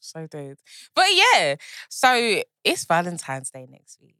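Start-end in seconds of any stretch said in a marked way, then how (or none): 1.9-4.2 sexy voice. Pretend. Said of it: "this is Ash's sexual voice".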